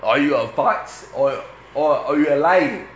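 light Indian accent impression. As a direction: quote him with an Indian lilt. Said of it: "Stop doing the accent".

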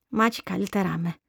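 weak, toneless sick voice, a little hoarse; barely any life in it, a touch hoarse; toneless, slightly hoarse. Acted. Sick girl answering her mother, toneless and faintly hoarse. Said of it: "με φωνή άτονη και λίγο βραχνή".

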